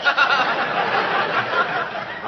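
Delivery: breathless high wheeze of a laugh; wheezy laugh. Acted. McGee laughing at his own blunders, wheezy laugh. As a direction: laugh at your own bad luck.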